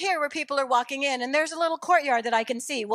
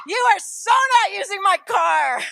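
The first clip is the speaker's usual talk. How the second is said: high, loud, slow mock-outraged mom; mock scolding; 7 semitones higher, 6 dB louder than usual. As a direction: lay down the law with hammed-up outrage. Mock scolding of her son.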